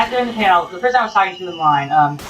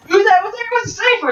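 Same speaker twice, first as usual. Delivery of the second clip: host asking; 14 semitones higher than usual. Retold or imitated. Hosts asking the crowd.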